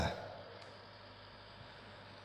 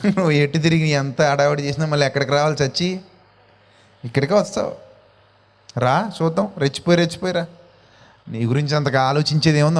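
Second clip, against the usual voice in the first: a touch lower, unhurried and unbothered; calmly wait out someone's bluster; patient forbearance; 3 semitones lower than usual. Acted. God answering a puffed-up man, mildly voiced patient forbearance. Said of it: "ఆయన సహనం, దీర్ఘశాంతం".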